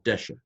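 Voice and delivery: Deshe said with the stress on DE, the first syllable. Shown as a demonstration. Teacher showing the class the stress on the first syllable of Deshe. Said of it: "it goes on the first syllable".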